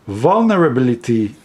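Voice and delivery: "Vulnerability" said in the speaker's own accent; accented word. Real, not acted. Reading a guidebook quote to viewers, accented "Vulnerability". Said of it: "this was with my accent".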